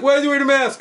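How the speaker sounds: high, loud movie-henchman yell; high-pitched mock shout; retold yell. Retold movie guy yelling.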